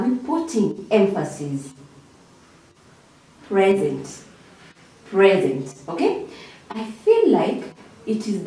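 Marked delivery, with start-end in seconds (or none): 3.5-4.2 "Present" as PRE-zent, falling at the end; weight on the first syllable of "Present"; stress on first syllable. Shown as a demonstration. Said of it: "our emphasis on the first part". 5.1-5.7 "Present" as PRE-zent, with a falling tune; stress on first syllable. Shown as a demonstration. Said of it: "our emphasis on the first part".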